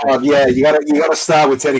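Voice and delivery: attempted Manchester sliding into Scouse; Scouse accent. Shown as a demonstration. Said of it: "I always drift off into Scouse".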